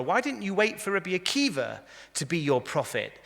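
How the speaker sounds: high-pitched, climbing plea of protest; incredulous protest. Acted.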